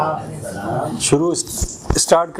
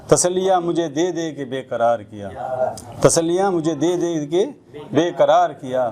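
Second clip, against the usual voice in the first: measured Urdu ghazal recital; poetry recitation. Acted. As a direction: recite the verse, pausing between lines.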